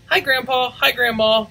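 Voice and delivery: put-on high bright child voice; child's greeting. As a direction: greet them like an eager little girl.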